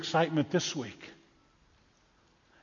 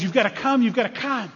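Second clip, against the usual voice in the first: higher, insistent excited urging; urgent pleading; 6 semitones higher than usual. Acted. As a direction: press a friend to come along. Friend urges blind man along.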